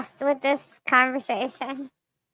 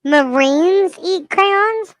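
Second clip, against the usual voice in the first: incredulous; 5 semitones higher, much slower than usual. Real, not acted. Incredulous repeat.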